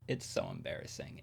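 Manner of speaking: hushed, breathy aside; whispered aside about Obi-Wan's failed force pull; embarrassed whisper. Real, not acted. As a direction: whisper it like a shameful secret.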